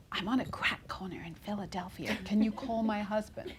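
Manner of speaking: hushed, furtive stage whisper. Retold or imitated. Working mom on a call from her daughter's school, whispering. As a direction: whisper it as if not to be overheard. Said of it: "I sort of whispered".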